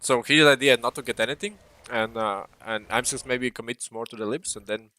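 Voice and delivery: talking through a sandwich; words round a mouthful of food; mouth full. Real, not acted. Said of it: "I have sandwich in my mouth".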